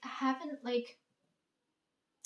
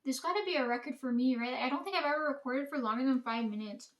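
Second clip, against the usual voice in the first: mouth full. Real, not acted. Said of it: "I'm gonna be talking with my mouth full of bread".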